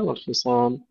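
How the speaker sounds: والخصام with a thick, full ص; heavy sad. Shown as a demonstration. Teacher modelling for students, heavy sad in والخصام. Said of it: "تفخيم الصاد جيدًا".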